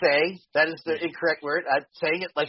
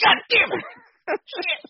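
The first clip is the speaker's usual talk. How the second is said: exasperated; 12 semitones higher, much slower than usual. Retold or imitated. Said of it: "I'm like".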